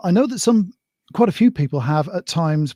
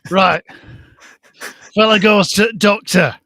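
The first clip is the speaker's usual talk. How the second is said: Blackpool bingo caller. Pretend. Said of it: "go all Blackpool bingo caller for this".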